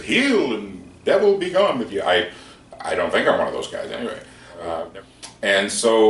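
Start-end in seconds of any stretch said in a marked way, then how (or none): 0.0-2.0 high, loud hammed-up faith healer cry; mock TV faith healer. Mocking TV healers, a hammed-up high loud healing cry. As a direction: send the devil off like a TV preacher, half in jest. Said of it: "those healing guys on T V who says".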